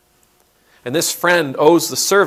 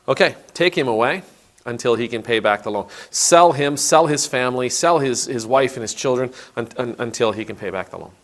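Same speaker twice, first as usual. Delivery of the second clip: commanding master. Retold or imitated. Master orders servant sold.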